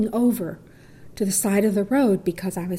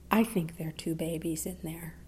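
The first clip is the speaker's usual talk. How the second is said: whispered, much softer; hushed report; 4 semitones lower, 12 dB quieter than usual. Retold or imitated. Nurse telling the doctor about twins, whispered. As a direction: murmur it to the doctor.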